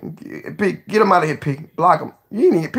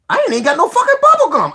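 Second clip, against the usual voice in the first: laughing; 6 dB louder, faster than usual. Real, not acted. Laughing at himself.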